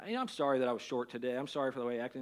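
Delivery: quiet sincere sorry; sincere apology. Retold or imitated. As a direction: apologize tenderly to your wife. Apologizing to wife at night.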